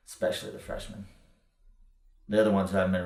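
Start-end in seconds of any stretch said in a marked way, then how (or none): 0.1-1.1 unvoiced, sly whisper; whispered aside. Mentor whispering a cruel jab at the young writer. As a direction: breathe it out like a dirty secret.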